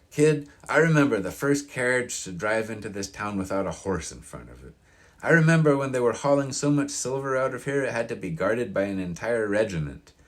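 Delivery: a hint of a grizzled old local telling tales; storyteller's old-timer voice, mostly narrator's own; old man reminiscing. Narrator voices old Mister Rozier.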